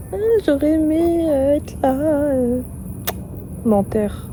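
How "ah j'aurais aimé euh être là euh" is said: drawn-out mock regret, pitched up at the start; mocking imitation. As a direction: mimic him mockingly. Mocking the father's excuses. (imitation moqueuse)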